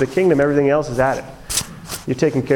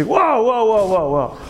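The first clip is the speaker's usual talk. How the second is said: high-pitched imitated interruption; Ron; 6 semitones higher, slower than usual. Mentor stopping a student's self-centred chatter, imitated interruption. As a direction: cut in high with a string of halting calls. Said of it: "he interrupts me".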